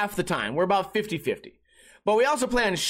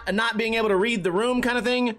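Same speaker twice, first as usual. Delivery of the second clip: ordinary talk, nothing marked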